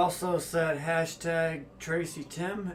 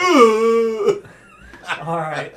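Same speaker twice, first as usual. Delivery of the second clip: laughing; 3 semitones higher, 12 dB louder than usual. Real, not acted. After laughing hard, hurting.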